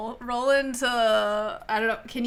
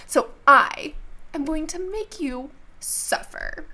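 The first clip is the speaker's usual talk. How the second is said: villain threat; 6 semitones higher than usual. Acted. Villain threatens to make them suffer.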